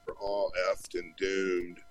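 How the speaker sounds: slow, mild mock Paxton line; a half-hearted attempt at Paxton; bad Bill Paxton impression. Guest retelling a singer's bad Bill Paxton impression, slow. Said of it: "did this really bad impression of".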